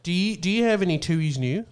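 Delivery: put-on Australian accent. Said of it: "my Australian accent is that".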